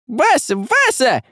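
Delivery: high thin calling voice; little creature calling; thin cry. A narrator's reading. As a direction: call out in a small voice. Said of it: "раздался тонкий крик".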